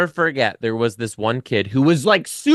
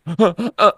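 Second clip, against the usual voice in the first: gasping, higher-pitched hitching sobs; mock sobbing; 8 semitones higher than usual. Pupil comes up to teacher, imitated sobbing gasps. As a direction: imitate breathless crying. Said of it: "She was crying so hard".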